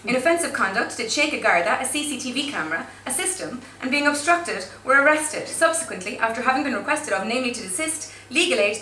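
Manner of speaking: steady official reading of legal wording; formal charge-sheet read. Acted. Reading court wording to the audience, formal and deadpan.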